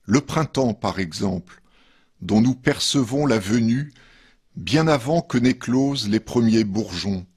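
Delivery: measured poetry reading with pauses between verses; poem reading. Acted. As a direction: read each verse line apart, letting it settle. Reads third poem after musical break. (lecture de poème posée)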